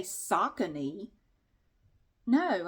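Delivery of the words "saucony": Saucony as SOCK-uh-nee; Google's pronunciation. Shown as a demonstration. Vlogger rejecting Google's version, SOCK-uh-nee. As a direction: say Saucony with "sock" first and a short "uh". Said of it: "I wouldn't say".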